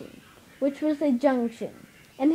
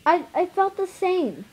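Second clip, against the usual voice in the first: breathless; 6 semitones higher than usual. Acted. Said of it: "in a breathless voice".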